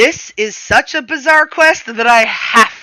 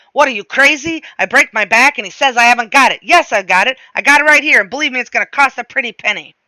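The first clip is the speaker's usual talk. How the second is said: put-on loud, higher, indignant shopkeeper with a thick foreign accent; yelling shopkeeper; 5 semitones higher, 5 dB louder, faster than usual. A narrator's reading. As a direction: bellow it like an outraged old bookseller. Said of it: "suddenly he's yelling at me".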